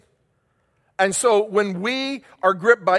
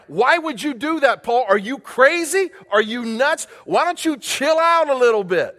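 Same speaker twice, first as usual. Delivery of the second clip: mocking crowd voice; 6 semitones higher than usual. Preacher voices people mocking Paul.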